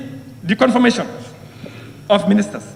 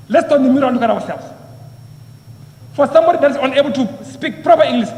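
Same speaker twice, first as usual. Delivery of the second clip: normal talking voice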